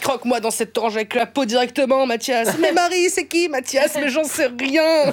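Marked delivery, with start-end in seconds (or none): 2.6-5.1 higher, frantic inner voice bickering with herself; manic self-argument. Pretend. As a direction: play a giddy mock-crazy alter ego. Arguing with herself, mixed accents.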